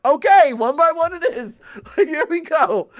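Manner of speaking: laughing resignation. Retold or imitated.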